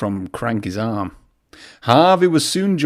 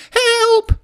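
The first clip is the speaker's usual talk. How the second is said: much higher, louder yelp; cry for help; 5 dB louder than usual. A narrator's reading. Percy crying for help as he speeds up, high and loud. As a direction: call out in panic. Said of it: "cried Percy".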